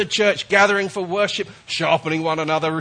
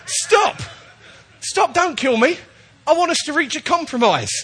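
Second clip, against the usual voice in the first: high, urgent bear begging for its life; comic high bear voice, imploring; talking bear's plea; 9 semitones higher, 3 dB louder than usual. Acted. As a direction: plead high-pitched with the hunter. Voices talking bear pleading with hunter.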